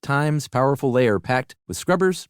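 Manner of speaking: lively, polished host-read commercial; podcast ad read. Acted. Host tells everybody about a laundry product, upbeat ad read. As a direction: pitch the product to listeners with upbeat emphasis. Reads a sponsor ad.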